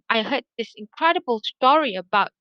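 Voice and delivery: eager teller hooking her friend on the news; excited storytelling. Shown as a demonstration. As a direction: lift the voice like juicy gossip. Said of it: "so you can sense the excitement".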